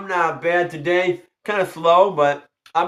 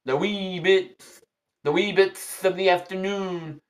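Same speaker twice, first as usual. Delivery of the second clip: put-on Irish accent; 4 dB quieter, slower than usual. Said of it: "look at the Irish".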